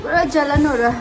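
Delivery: laughing through a burning mouth; talking with ice on burning lips. Real, not acted. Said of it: "putting on ice here".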